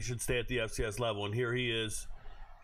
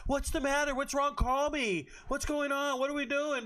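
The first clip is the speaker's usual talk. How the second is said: much higher, fussy mock concern; mock worried friends; 13 semitones higher than usual. Host mimics concerned friends in comments, much higher and gushing. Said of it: "all their friends in the comments".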